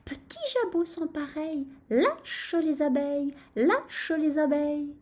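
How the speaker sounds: high, sustained little incantation; rooster's muttered spell. A narrator's reading. Rooster tells crop to release bees, muttered chant. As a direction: chant it like a magic charm. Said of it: "se mit à marmotter".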